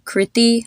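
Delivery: "Kriti" slowly as KRIH-tee; first vowel short, second long in "Kriti". Shown as a demonstration. Teacher returning to own name, slow "Kriti" as KRIH-tee. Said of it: "is a good example of that".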